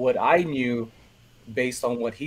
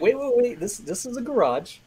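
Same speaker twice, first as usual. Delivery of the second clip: retold seller, higher and eager; a hint of a seller jumping in, higher; excited seller; 7 semitones higher than usual. Seller haggling in retold story.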